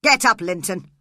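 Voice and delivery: father shouting at his sick son; angry shout. A narrator's reading. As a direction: snap at your son. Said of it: "He shouted angrily".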